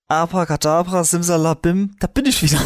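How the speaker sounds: lightly voiced stage magician; kids party magician. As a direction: announce it like a showman. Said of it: "du kannst dir aber auch mal was Kreativeres einfallen lassen". (Zauberer-Stimme)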